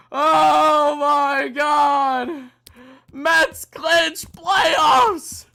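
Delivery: very slow, long-drawn cries; overwhelmed disbelief. Real, not acted. Fan stunned by the playoff clinch, slow drawn-out cries. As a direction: drag each word out in amazement.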